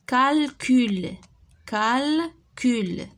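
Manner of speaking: slow, syllables drawn out; slow modelled word. Shown as a demonstration. Teacher sounding out a word for pupils, slowly. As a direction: sound out canari for the class. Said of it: "teacher models word slowly".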